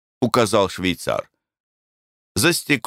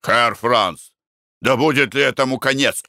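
shout; 6 semitones higher than usual. Acted. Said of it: "закричал Николай Иванович".

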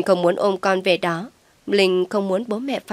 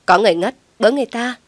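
loud, fast alarm cry; calling for help; 4 semitones higher, 6 dB louder, faster than usual. A narrator's reading. Passer-by calling out for help, loud and fast. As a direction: shout to the street that someone fainted. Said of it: "Tiếng hô hoán vang lên".

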